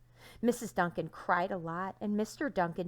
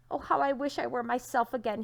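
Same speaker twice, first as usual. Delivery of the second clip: longing wish; 5 semitones higher, 4 dB louder than usual. Acted. Trapped rock longs, pleading.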